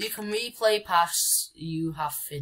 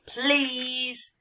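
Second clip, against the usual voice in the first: begging; 7 semitones higher than usual. Pretend. Begging loudly.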